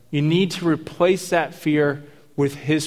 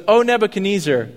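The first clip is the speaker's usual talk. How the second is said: bold address; 5 semitones higher, 3 dB louder than usual. Retold or imitated. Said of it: "so he goes".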